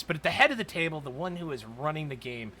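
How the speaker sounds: usual speaking voice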